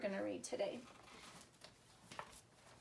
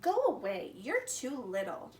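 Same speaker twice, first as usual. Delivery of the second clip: grumpy brother; 5 dB louder than usual. Acted. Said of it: "Felix scowled".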